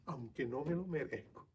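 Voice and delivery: very soft, low, hushed confession; humble faith. Acted. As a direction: say it quietly and low, in humble trust. Humble faith voiced, closing the sermon.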